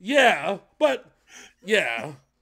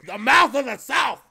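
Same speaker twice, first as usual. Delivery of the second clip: wrestling announcer shout; 4 semitones higher than usual. Pretend. Reactor hyping the singer as Jimmy Hart, mock announcer shout. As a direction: belt out the nickname like a ring announcer.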